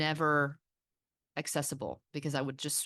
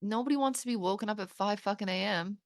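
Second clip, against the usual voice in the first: quick, higher, fed-up exclamation; exasperated aside; 6 semitones higher, faster than usual. Retold or imitated. Exasperated mother, mocking her own complaint, fed-up fast exclamation. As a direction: roll the eyes at the early wake-up. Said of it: "I'm hearing myself talk and I'm like".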